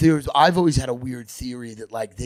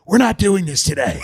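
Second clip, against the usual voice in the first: higher, louder mock brush-off; mock mayor dismissal; 6 semitones higher, 5 dB louder than usual. Mocking the mayor dodging a reporter's question. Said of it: "And she'd be like".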